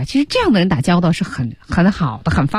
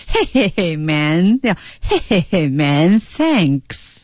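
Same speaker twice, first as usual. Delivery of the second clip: laughing thanks; much slower than usual. Retold or imitated. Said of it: "笑着说的啊".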